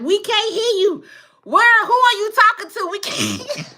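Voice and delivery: high, whiny imitation of confused viewers; mock viewers' voice. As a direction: parrot the commenters in a high mocking voice. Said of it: "Y'all like".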